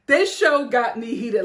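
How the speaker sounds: laughing, heated again. Real, not acted. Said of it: "repeated line".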